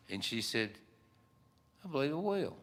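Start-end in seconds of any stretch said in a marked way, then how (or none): 1.8-2.6 high-pitched, coy yes; coy acceptance. Retold or imitated. Woman answers fella's marriage proposal, coyly. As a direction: imitate a woman sweetly accepting.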